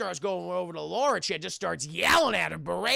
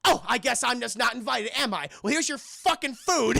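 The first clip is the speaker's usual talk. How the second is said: high, louder offended snark; mock sulky sarcasm; 6 semitones higher, 5 dB louder than usual. Calvin sulking at being left out, sarcastic. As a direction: play it wounded and petty. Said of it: "Calvin goes".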